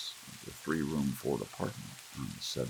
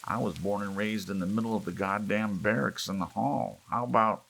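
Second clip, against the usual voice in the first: put-on raised, higher voice of a sore young man; heated complaint; 6 semitones higher, 5 dB louder than usual. A narrator's reading. Young man arguing with elders, heated and raised. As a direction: gripe loudly at the old folks. Family quarrel over privacy.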